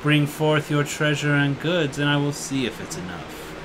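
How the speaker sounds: loom over the little elf; low dragon demanding a toll from the elf. Acted.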